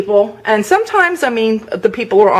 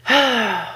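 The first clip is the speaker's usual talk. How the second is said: a long, weary sigh; a tired sigh of frustration; heavy sigh; 3 semitones higher, 3 dB quieter than usual. Real, not acted. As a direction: let the breath out to calm down. Calming down after anger.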